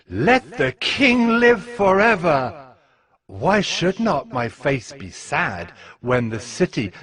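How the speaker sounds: a cupbearer pleading humbly with his king; pleading servant. Acted. Nehemiah answering the king, lightly voiced humble plea. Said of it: "I said to the king".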